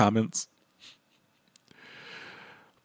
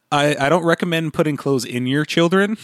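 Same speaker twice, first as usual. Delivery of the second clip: dry, mock-helpful sarcasm; deadpan fake advice; sarcastic; 4 semitones higher, 3 dB louder than usual. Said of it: "I had to just amp up the sarcasm".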